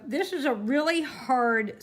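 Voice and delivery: talking with glasses in mouth; mouth full. Real, not acted. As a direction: speak around glasses held in teeth. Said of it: "I had my glasses in my mouth".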